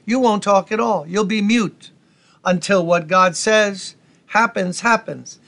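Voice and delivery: tough New York angel, lightly done; New York flavor. Acted. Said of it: "I'll bring a little New York flavor".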